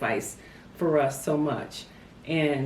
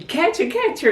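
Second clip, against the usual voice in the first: high-pitched mock call to give chase; retold high, excited cry; imitating Mama calling; 11 semitones higher, 3 dB louder than usual. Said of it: "Mama was saying".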